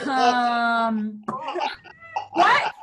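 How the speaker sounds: disbelieving um, what; baffled what. Retold or imitated. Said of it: "And I was like".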